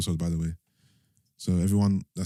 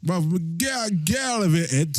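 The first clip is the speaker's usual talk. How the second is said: pitched way up, slowed; high mock protest; 7 semitones higher, slower than usual. Real, not acted. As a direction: squeal get out of it. Teasing outburst at the whisperer.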